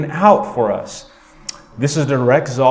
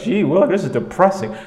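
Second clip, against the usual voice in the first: mock glum congregant; 5 semitones higher than usual. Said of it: "You're like".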